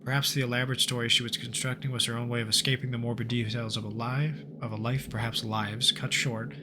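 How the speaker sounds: measured narrator reading the game's journal; story narration. Acted. Gamer narrating the journal to viewers, steady storyteller voice. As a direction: read it like an eerie case file. Reads game story text aloud.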